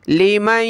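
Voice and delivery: लिमन with the न hummed through the nose, not pronounced; tajweed ghunna demo; nasal ghunna. Shown as a demonstration. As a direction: blend न into म with a nasal hum. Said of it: "नाक में आवाज़ पैदा करनी है".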